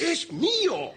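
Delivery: high, forceful interjection; angry outburst. Acted. Landowner claiming the meadow, angry outburst. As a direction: cut in with an angry cry. Cuts in during land quarrel.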